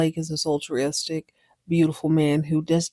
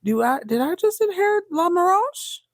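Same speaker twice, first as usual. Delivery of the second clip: greedy glee; 11 semitones higher than usual. Retold or imitated. Claudia realizes inheritance.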